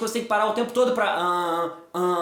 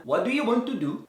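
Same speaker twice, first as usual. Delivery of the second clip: different English accent. Shown as a demonstration. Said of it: "Tá tudo com sotaque diferente".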